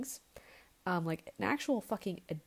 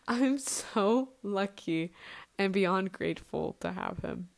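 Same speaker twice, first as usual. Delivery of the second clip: gushing; slower than usual. Real, not acted. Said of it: "I can't speak".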